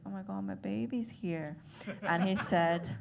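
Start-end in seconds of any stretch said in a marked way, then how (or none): 0.0-1.6 softer, muted aside; acted dad catching himself quietly; hushed self-reminder. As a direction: say it softly to yourself. Dad catches himself before cursing.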